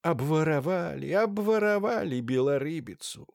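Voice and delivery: high keening wail; wailing holy fool. A narrator's reading. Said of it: "знай, блажила".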